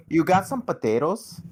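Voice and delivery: lightly put-on Minnesota accent, rising question; mock Minnesota accent. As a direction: poke fun with a Minnesota accent. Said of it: "the only reason I ever do that accent".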